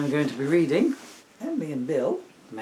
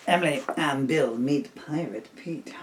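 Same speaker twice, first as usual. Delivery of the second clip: title announcement; slower than usual. Acted.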